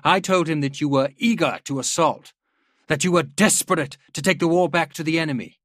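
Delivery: rally the troops with every phrase; rousing speech. A narrator's reading. General rallying his officers.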